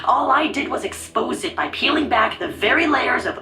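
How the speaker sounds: disguised, menacing voice; scary voice. Acted. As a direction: speak like a menacing shadow. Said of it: "What happened to the scary voice?".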